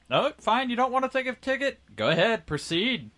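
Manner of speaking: casual, unbothered wave-through, imitating a guard; nonchalant. Guard casually lets someone skip the ticket, nonchalant. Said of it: "all nonchalant".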